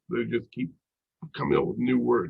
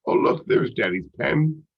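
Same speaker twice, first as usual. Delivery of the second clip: higher, slower, lightly acted child-directed voice; parent to toddler; 4 semitones higher, 3 dB louder than usual. Parent gesturing at a table to a toddler, lightly acted parent voice. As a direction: show a little one something, slowly.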